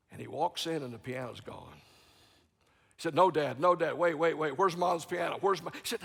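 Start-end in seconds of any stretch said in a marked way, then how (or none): 3.1-5.7 louder urgent pleading; alarmed protest. Retold or imitated. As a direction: stop him in a panic. Son protesting in story.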